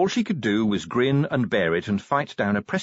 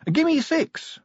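cheerful. A narrator's reading. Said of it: "said Sally cheerfully".

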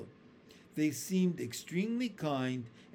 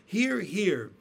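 cheering shout; 4 semitones higher, 6 dB louder than usual. A narrator's reading. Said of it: "they all shouted".

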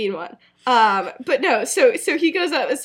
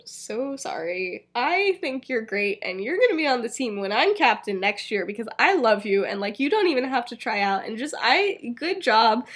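trying to be nice. Acted. James consoling Marina, trying to be nice. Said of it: "he's trying to be nice".

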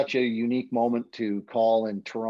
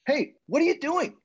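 voiced boss on phone; 3 dB louder than usual. Brad calling him, voiced.

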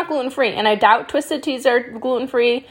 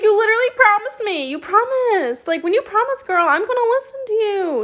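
high-pitched mock outrage at the restaurant; exasperated high complaint; indignant; 11 semitones higher than usual. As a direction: scold them like a betrayed friend, voice way up. Scolding the restaurant for broken promise.

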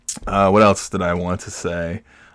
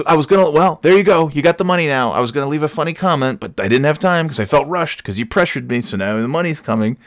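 mock wife complaint; 7 semitones higher than usual.

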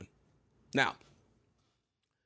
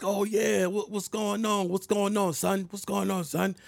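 higher, offhand brush-off greeting, lightly voiced; a rapper; 8 semitones higher than usual. A rapper brushing off a fan he barely remembers, lightly voiced. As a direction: toss off a casual star's hello. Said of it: "He's like".

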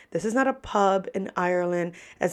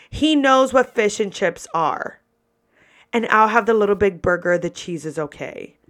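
imitating a bossy five-year-old, firm start; lightly voiced sassy kid, dropping off at the end; sassy little girl. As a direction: cut in with big-sister sass. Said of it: "so much sass coming from a little five-year-old".

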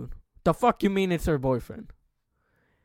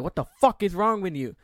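heated, raised-pitch confrontation, acted out; retold angry yell; 4 semitones higher, 4 dB louder than usual. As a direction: replay an adrenaline-fuelled outburst. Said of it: "'cause I was yelling".

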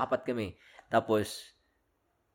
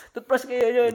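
higher, louder scolding mom voice; mock angry mother; 13 semitones higher, 6 dB louder, slower than usual. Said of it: "Parang galit na nanay".

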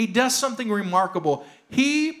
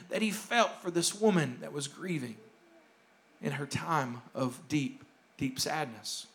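drops much lower and softer on deep, deep sadness; hushed preaching; 7 semitones lower, 10 dB quieter than usual. Acted. Pastor describing the grieving widow, falling to a hush. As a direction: sink your voice into the grief.

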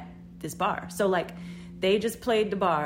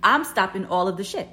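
firm, louder emphatic retelling; pissed off; 2 semitones higher, 6 dB louder than usual. Retold or imitated. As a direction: put your foot down, annoyed. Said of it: "'cause I'm pissed".

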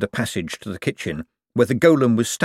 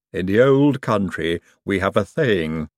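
Igor voice. Acted. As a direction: drag it out like a humble henchman. Igor offers old country wisdom.

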